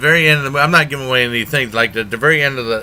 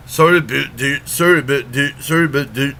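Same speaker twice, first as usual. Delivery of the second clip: a light, mocking hint of a bad Canadian accent. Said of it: "really bad Canadian a-, accents".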